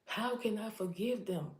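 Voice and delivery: frustrated plea with pitch lifted; exasperated appeal to God. Retold or imitated. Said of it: "I'm frustrated because I'm like".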